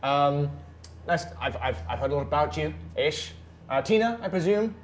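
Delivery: Balthazar's greeting. Acted. Player voicing Balthazar greeting.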